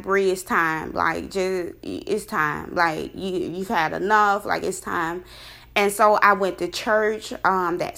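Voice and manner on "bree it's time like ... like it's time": softer, lower, gentle firmness; lightly voiced, quiet and lower; a hint of God's voice. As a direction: calmly tell her it's over. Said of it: "God was like".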